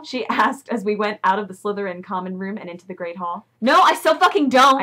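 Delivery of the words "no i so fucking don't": higher, louder hammed-up denial; mock shout. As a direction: shout it like a defensive teen. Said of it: "I shouted".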